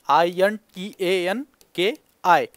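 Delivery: slow spelling for notes; spelled out letter by letter. Shown as a demonstration. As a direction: spell I N T A N K I slowly, one letter at a time. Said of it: "important आहे, लक्षात ठेवा". (अक्षरं हळू एकेक करून सांगा)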